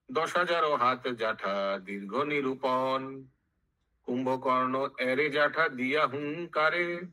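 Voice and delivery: measured chanted verse with drawn-out line endings; sing-song Bengali verse recital; verse recitation. Acted. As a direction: intone it like epic scripture.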